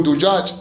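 "دجاج" with u after the dal, dujaj; damma on dal. Shown as a demonstration. Teacher gives students an example of triple vowelling, "دجاج" as dujaj. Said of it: "هاي تثليث".

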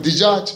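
"دجاج" with i after the dal, dijaj; kasra on dal. Shown as a demonstration. Teacher gives students a second vowelling, "دجاج" as dijaj. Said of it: "هاي تثليث".

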